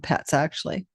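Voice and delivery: real yawn while talking; words stretched by a yawn. Real, not acted. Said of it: "I don't know why I'm yawning".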